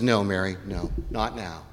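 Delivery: low, soft refusal; quiet, calm no; gentle Jesus. Acted. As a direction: gently hold her off, voice dropping. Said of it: "But Jesus says".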